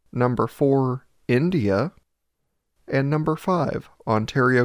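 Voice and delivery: measured countdown announcer delivery; scripted rankings read. Real, not acted. Podcast host announcing country rankings to listeners, scripted read. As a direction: read out the standings, pausing between places.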